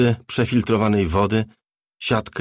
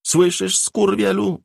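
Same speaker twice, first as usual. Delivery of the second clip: shrill furious scream, much higher and louder; 12 semitones higher, 4 dB louder, slower than usual. Acted. Cherry screaming at Bobby on the monitor, furious. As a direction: scream your rage at the screen. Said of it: "wrzasnęła Cherry".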